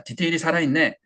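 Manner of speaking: a hint of corny uncle; middle-aged-guy catchphrase. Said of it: "너무 아재같이 얘기를". (살짝 아재 같은 말투)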